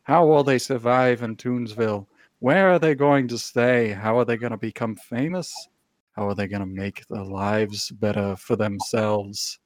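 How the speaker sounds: grand, dramatic announcer voice as a pigeon; pigeon narrator voice. Acted. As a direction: narrate the city like a movie trailer.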